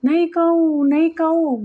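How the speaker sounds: high, frightened pleading; trembling plea. Acted. Boy caught by the neck, pleading in fear. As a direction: beg in a panic, voice pitched high. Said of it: "Batuk ફફડી ઉઠ્યો".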